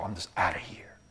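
a hushed, defeated whisper; despairing whisper. Retold or imitated. Father telling his wife he's leaving, whispered. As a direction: let the words fall away to nothing.

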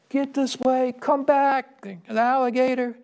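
high-pitched mother's call across the pond; retold yell. Mother on the dock calling her swimming son, alarmed high yell. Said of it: "she yelled".

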